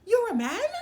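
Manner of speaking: high, loud disbelieving cry; can't believe her eyes; astonished question. Acted. Young princess asking the transformed frog, high and amazed. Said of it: "the young princess gasped".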